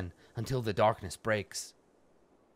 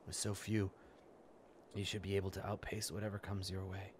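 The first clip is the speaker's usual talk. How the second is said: soft mystic mage; 4 dB quieter than usual. Acted. Streamer voicing Juno's prophecy, quiet and grave. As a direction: read the seer's warning hushed and grave. Reads mage's lines aloud.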